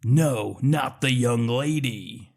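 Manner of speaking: put-on slow broad Scottish accent; lightly done broad Scottish accent. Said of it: "in his broad Scottish accent says".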